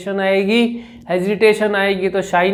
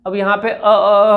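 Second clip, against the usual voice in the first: a hint of a stuck, repeated अ; stammer demo. Shown as a demonstration. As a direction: lightly imitate getting stuck on अ. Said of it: "अ के ऊपर मैंने जोर लगाया तो मैं रुक गया".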